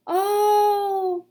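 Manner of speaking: long high drawn-out oh of sudden realization. A narrator's reading. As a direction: stretch the oh as an idea dawns. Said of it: "Diggory gave a long".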